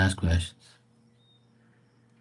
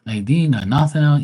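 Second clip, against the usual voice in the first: exasperated rant; 6 semitones higher than usual. Retold or imitated. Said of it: "And I'm like".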